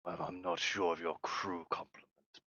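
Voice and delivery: lightly voiced low Vesk captain; stern reptilian captain. Vesk captain warns about the unruly crew, lightly voiced sternness.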